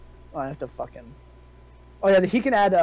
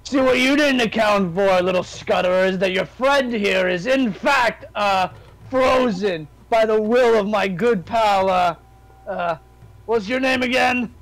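lightly voiced gloating hero; cocky fighter in character; 4 semitones higher, 4 dB louder than usual. Fighter taunting little enemy about frozen friend, lightly cocky. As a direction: explain it to a foe, a touch raised.

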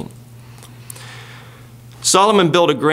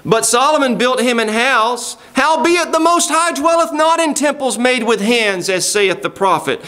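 raised, higher-pitched preacher's reading voice; declaimed Bible passage, pitched up; scripture reading; 6 semitones higher than usual. Acted. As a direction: proclaim the verse at a higher pitch. Reads scripture to congregation.

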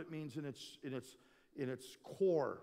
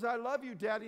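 imitated toddler; 7 semitones higher, 5 dB louder than usual. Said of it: "he runs up to me and he says".

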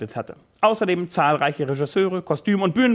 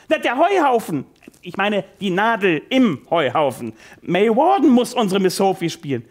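louder, rising eureka; triumphant excitement; 3 semitones higher, 4 dB louder than usual. Acted. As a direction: burst out with the solution. Director's sudden inspiration. (triumphierend begeistert)

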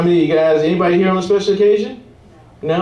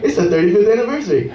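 fast, higher, insistent repeat; pushy guest; 5 semitones higher, faster than usual. Retold or imitated. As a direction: keep pushing the anniversary. Guest repeating it a third time.

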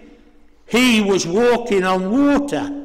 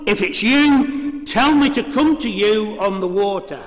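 raised, higher eager call to the Lord; eager declaration; 4 semitones higher than usual. Retold or imitated. Preacher voicing Peter calling out to Jesus, eager and raised. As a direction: Peter blurting out his bold request. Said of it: "he turned round and he declared".

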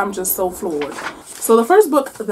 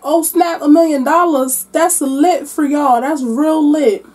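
mock impressed; 5 semitones higher, 3 dB louder than usual. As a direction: drag out fake admiration. Avery mocking grandsons' million.

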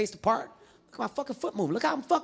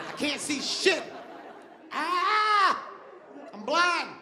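panicked yelling; 7 semitones higher, slower than usual. Retold or imitated. Blinded fighter yelling to end the round, panicked. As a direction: beg for the bell in a panic.

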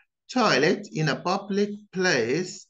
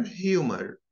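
"humor" with a rhotic American ending; American pronunciation. Shown as a demonstration. Teacher contrasting the accents, American take. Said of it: "notice the differences between them".

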